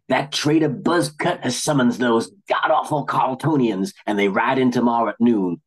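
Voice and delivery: hammed-up Western cowboy accent; a sheriff warning of outlaws; fake cowboy drawl. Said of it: "his fake cowboy drawl".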